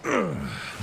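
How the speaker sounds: high sigh falling away; satisfied sigh. Acted. After a nice soak, satisfied sigh. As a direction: let out a contented sigh.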